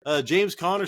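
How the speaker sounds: high-pitched imitation of an unsure fan; mock high, wavering questioner; put-on questioner voice. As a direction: pitch it up, dithering between options. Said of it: "Sorry, I gave you that voice".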